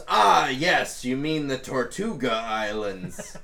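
lightly voiced sea dog informing the crew; pirate NPC voice. Cutlass McGee answering the lost sailor, in a lightly put-on pirate voice. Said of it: "and goes".

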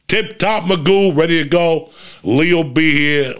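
show hype. Real, not acted. Hyping his show lineup.

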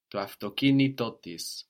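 to autokinitotis with a second stress on to; second accent toward the end. Shown as a demonstration. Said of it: "we're raising the accent again towards the end".

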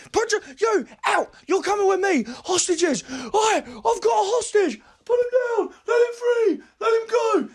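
high frantic robber shouting; bank robber. Acted. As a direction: yell like a panicked robber. Robber takes a hostage.

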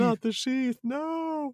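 high, soft mock protest; mock whine. Cohost echoing the sword joke in a high whimper.

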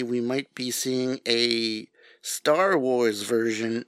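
slow, broad New England vowels; New England accent. Real, not acted. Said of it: "that was my New England accent coming out".

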